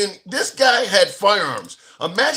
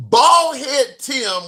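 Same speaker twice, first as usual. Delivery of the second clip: high, slow, loud gangster granny; gangster grandma voice; 6 semitones higher, 3 dB louder, much slower than usual. Pretend. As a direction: drawl it like a tough old grandma. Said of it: "in my gangster grandma voice".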